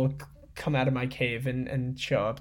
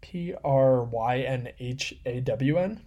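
slow questioning spelling; slower than usual. Shown as a demonstration. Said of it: "repeats spelling".

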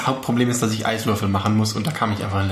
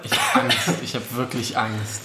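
mock fear. Dreading the cheap drink.

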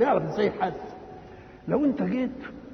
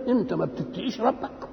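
mildly incredulous question, rising end; astonished disapproval; 5 semitones higher than usual. Acted. Elder challenges a negligent pupil, mildly astonished disapproval. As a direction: challenge him with a touch of reproach. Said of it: "كأنك تعجبت وأنكرت ألا يذاكر".

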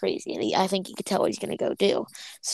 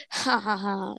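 fake villain laugh; slower than usual. Rival character's spoken fake laugh.

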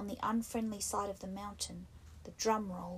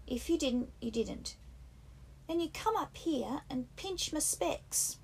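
raised, insistent schoolboy voice; Piggy scolding; 6 semitones higher than usual. A narrator's reading. Piggy rebukes the boys at the fire, indignant and raised. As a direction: lecture them like a fussy, put-upon boy.

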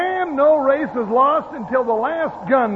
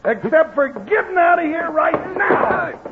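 angry shout. Acted. Jingles throws Zager out.

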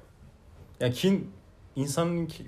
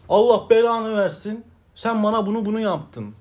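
retold street yelling; 5 semitones higher, 3 dB louder than usual. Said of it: "Ya kız bağırıyor".

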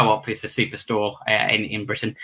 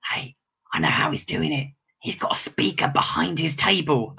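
imitating a kid; 3 semitones higher, 4 dB quieter than usual. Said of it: "a little kid that leans over and goes".

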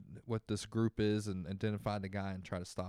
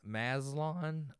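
cracking voice, pitch jumps up; voice cracking up an octave; 5 semitones higher than usual. Real, not acted. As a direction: voice breaks high on the name. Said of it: "Sorry, my voice broke".

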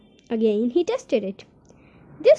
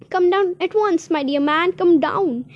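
eager urging; 6 semitones higher, 4 dB louder than usual. Acted. Urging him downstairs, thrilled.

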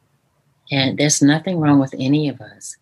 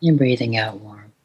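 guided meditation. Shown as a demonstration. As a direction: gently lead the listener into calm. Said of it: "Can we do one right now?".

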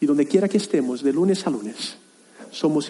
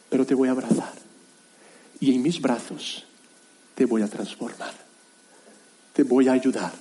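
tender voice of God; 3 semitones lower, 3 dB quieter than usual. Retold or imitated. Voicing God's tender reply.

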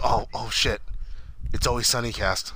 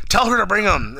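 retold yell; 6 semitones higher, 6 dB louder than usual. FBI boss yelling order retold.

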